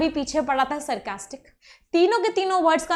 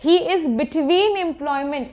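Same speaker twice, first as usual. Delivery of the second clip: very slow, every word drawn out clearly; slow dictation; much slower than usual. Shown as a demonstration. Teacher repeating the answer to her class, very slow. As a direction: give the euphemism word by word. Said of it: "क्या होगा euphemism?".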